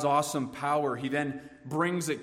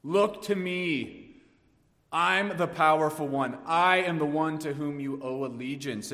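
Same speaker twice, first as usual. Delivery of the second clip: commanding divine proclamation; 3 semitones higher, 3 dB louder than usual. Acted. Preacher voicing God to the warring nations, commanding proclamation. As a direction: declare it as the almighty demanding allegiance. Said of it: "God would shout aloud".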